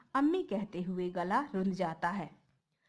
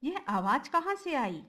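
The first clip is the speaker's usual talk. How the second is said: higher, startled question; 5 semitones higher than usual. Acted. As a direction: caught off guard, asking. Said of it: "एक व्यापारी चौंक कर".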